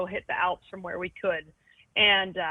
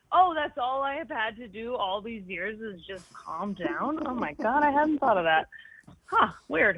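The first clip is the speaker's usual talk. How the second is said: sarcastic mock surprise; 3 semitones higher than usual. Mocking the advice to just calm down, in sarcastic fake wonder. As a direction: play dumb wonder at advice she resents. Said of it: "which is my favorite sentence ever".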